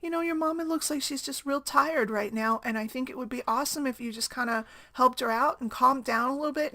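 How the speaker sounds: put-on coaxing a child, pitched a little up; soothing. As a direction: imitate a kind stranger reasoning with a child. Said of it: "really soothingly talked to my son".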